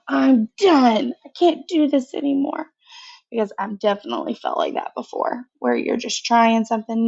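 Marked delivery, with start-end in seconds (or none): 0.1-2.7 frustrated. Shown as a demonstration. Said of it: "slamming his pencil down".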